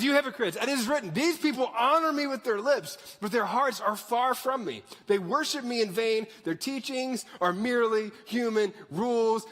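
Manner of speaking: acted indignant rebuke, easing toward the end; calling them out. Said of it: "He calls them out and says".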